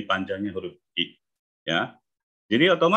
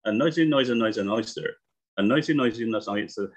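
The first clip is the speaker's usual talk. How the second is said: quick tongue twister run; read fast; faster than usual. Shown as a demonstration. Teacher shows students the tongue twister at speed, rushed and quick. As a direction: rattle off noisy as fast as you can. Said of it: "Lalu kita baca cepat".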